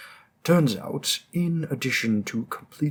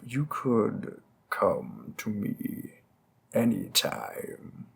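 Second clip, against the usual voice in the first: slow, lower suggestive offer; flirty invitation; 4 semitones lower, slower than usual. Acted. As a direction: lean in and let it linger. Mob boss flirting with detective.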